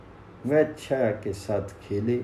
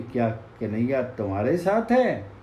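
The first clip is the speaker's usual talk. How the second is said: echo. Acted. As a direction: hand it back as the forest's reply. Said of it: "प्रतिध्वनि आई कि".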